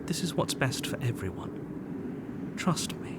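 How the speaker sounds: slow, unvoiced, creepy hush; coaxing whisper. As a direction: narrator whispering persuasion. Narrator coaxing player in whisper.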